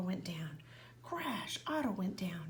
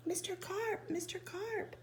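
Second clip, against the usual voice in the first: yelled; 11 semitones higher than usual. A narrator's reading. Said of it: "I yelled".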